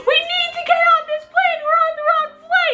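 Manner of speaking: high, rapid panicked cry; frantic yelling back. Retold or imitated. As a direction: shriek it back, hammed-up and rushed. They yell back at passengers.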